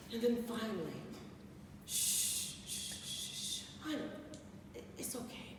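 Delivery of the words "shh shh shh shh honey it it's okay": hushed, tender shushing; calm her down gently; mother hushing her daughter; soothing whisper. Retold or imitated.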